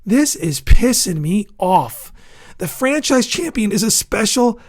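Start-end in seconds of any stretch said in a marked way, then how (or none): 0.0-2.1 louder, slower, each word pressed out; real anger, louder and slower. Real, not acted. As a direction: let the irritation boil over. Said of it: "I'm getting pissed off right now".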